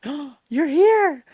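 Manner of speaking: put-on high, loud, slow girly greeting; a loud, slow and high mock-sweet greeting; imitating Lisbeth. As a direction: stretch it out sweetly in her voice. Girl greeting narrator at rally.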